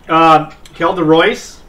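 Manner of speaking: slow, reluctant answer; unenthusiastic. Real, not acted. Cartoonist grudgingly naming the board's endorsement pick, unenthusiastic. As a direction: drag it out without excitement. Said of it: "You don't sound that excited".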